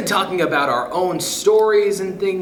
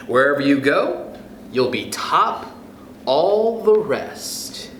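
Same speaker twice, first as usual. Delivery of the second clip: lively storybook read-aloud voice; expressive picture-book reading; reading to children; 2 semitones higher than usual. Acted. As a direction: read it to a class of kids, bright and sing-song. Teacher reads picture book aloud.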